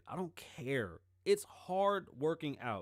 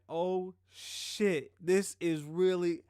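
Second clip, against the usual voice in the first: high, loud, slow mock panic; hammed-up terror at being shot at; panicked; 6 semitones higher, 6 dB louder, slower than usual. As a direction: play the freaked-out passenger under fire. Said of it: "The boy was like".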